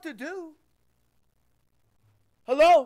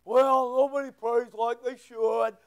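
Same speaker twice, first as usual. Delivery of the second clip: imitated excuse-maker, put-on lower voice; mock excuse; 3 semitones lower than usual. Churchgoer excusing himself to the preacher, mock excuse.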